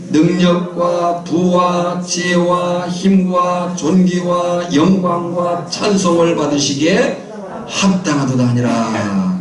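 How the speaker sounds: slow, measured recitation on one level pitch; scripture reading. Acted. Preacher reads Revelation to the congregation, intoned scripture reading. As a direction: intone the verse, stretching each item of the list.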